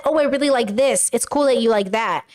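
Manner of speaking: lightly friendly, easy-going delivery; accepting, friendly. Acted. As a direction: model a kinder, accepting reply. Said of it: "you could have just said".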